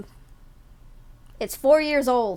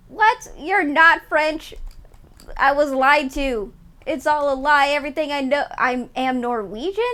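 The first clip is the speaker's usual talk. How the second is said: mock outrage; 3 semitones higher, 5 dB louder than usual. Streamer acting betrayed that chat isn't French, mock outrage.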